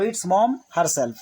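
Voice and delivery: very slow, mom stressed; slow demo sentence. Shown as a demonstration. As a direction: dictate slowly, stressing mom. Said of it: "मम्मी ही तो हैं".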